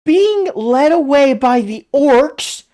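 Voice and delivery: can't believe what they showed; incredulous. Real, not acted. Baffled at continuity error.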